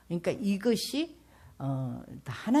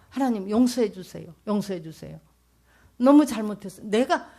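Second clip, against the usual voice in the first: pleading for forgiveness; 5 semitones higher, 7 dB louder than usual. Retold or imitated. Retold plea for forgiveness.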